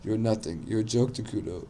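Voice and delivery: put-on mildly loud, cocky kid taunt. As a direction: lift the voice slightly, without screaming. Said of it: "now he raised his voice again".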